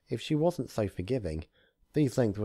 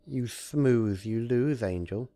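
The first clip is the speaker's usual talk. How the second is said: raised, gloating trickster voice; gloating Discord; 4 semitones higher, 3 dB louder, slower than usual. Acted. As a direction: lord it over the trapped rabbit. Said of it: "Discord gloated".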